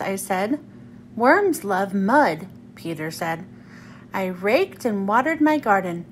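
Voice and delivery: expressive, unhurried picture-book narration; children's story reading. Acted. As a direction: read it aloud to young children, acting out the lines.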